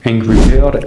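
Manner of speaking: Angry Bird in a mock American accent; imitated American English pronunciation; put-on American accent. Shown as a demonstration. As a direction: say it like an American, r's softened. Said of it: "je vais pas prendre un accent".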